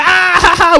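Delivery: high-pitched pretend laugh; spoken-out ha-ha of a good time; mock laughter. Friends walking and having a good time, high mock laughter. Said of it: "we're laughing, we're like".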